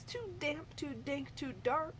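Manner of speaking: high, tiny mouse voice; squeaky mouse. Acted. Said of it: "Mouse squeaks".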